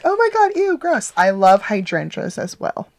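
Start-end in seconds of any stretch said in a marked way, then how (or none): 0.0-1.1 mock disgust. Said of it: "I'm not like".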